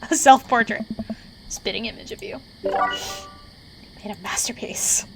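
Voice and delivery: lightly voiced teasing mentor; deadpan praise; Robert voice. Mentor mocks the player's carving, light character voice. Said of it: "my Robert voice".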